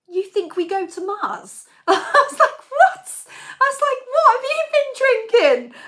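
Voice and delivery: high, loud laughing what; cracking up in disbelief. Retold or imitated. Teasing brother-in-law about Mars, high laughing voice.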